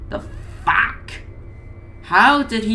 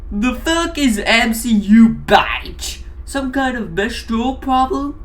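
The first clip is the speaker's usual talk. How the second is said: yelling; 6 semitones higher than usual. Acted. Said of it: "Mac yelled".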